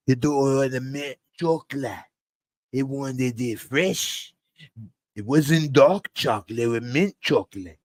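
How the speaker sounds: a hint of an old boss rambling; lightly voiced boastful patriarch, unhurried; Walter Flynn impression. Lecturing about his kids, lightly voiced Walter. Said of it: "I can do the Walter Flynn impression".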